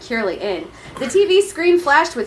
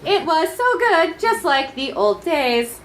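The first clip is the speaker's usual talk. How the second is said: mock ecstatic reminiscing; 6 semitones higher, slower than usual.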